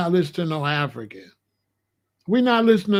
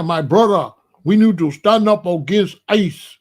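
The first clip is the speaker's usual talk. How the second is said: mock African accent, a bit louder; imitating an African preacher's call to rally; 5 dB louder than usual. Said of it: "nobody with no accent".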